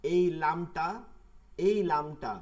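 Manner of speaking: এই লামটা said slowly and loudly, pointing it out; stress on লামটা. Shown as a demonstration. Teacher draws students' attention to the silent lam, loud and slow. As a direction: hammer home এই লামটা. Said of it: "এই লামটা উচ্চারিত হয় নাই".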